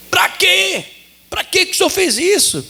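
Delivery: retold crying shout. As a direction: cry out the complaint like the distraught wife. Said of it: "E ela nervosa e chorando".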